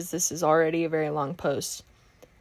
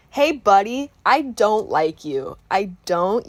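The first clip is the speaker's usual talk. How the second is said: pointed, louder address to an absent ex; confrontational call-out; 4 dB louder, slower than usual. Pretend. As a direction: call him out sharply. Addressing the ex directly.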